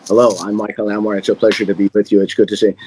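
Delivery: rattled off fast, rote and mechanical; cookie cutter recital. Shown as a demonstration. A performer mocks his memorized hello as a fast, rote recital. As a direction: rush through it like you've said it a thousand times. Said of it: "a very cookie cutter experience".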